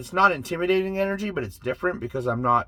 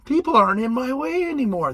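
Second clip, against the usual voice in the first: amazed; 8 semitones higher than usual. Pretend. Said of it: "You'll be like".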